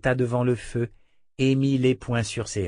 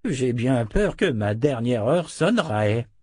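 lightly voiced old man, drawn out; a slow, mild elderly grumble; grumbling old wizard; slower than usual. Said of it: "marmonna le sorcier". (léger ronchonnement de vieux sorcier)

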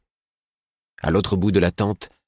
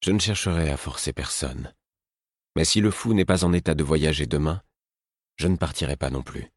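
forced calm. Acted. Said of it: "m'imposai de m'exprimer calmement".

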